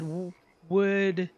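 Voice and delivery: nervous stutter. Retold or imitated.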